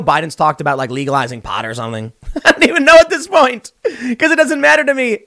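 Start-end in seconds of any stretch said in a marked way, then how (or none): 2.3-5.2 high, exasperated laugh through the words; laughing in disbelief. Real, not acted. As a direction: laugh it out, can't believe it. Ranting about politics, laughing.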